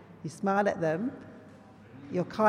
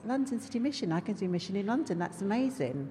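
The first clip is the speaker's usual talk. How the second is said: higher, eager inner voice, quick on the middle line; bright rush of remembered excitement; excited thoughts; 3 semitones higher, faster than usual. Retold or imitated. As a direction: relive the thrill of spotting a calling. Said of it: "I used to get really excited".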